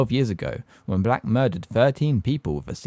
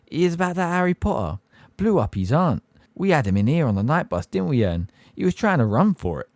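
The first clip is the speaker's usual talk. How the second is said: higher, louder cockney gossip; imagined Stan gossip; 6 semitones higher, 3 dB louder than usual. Retold or imitated. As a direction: spin the tale to passengers.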